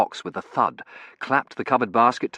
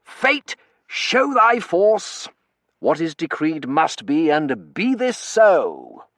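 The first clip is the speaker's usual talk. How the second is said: higher, slow, grand recitation; solemn quoting; 7 semitones higher, 6 dB louder, much slower than usual. A narrator's reading. Terence quoting poetry about fate to the narrator, slow and grand. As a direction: intone the lines like a solemn oracle.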